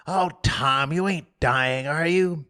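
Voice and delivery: put-on scared boy. Sid scared.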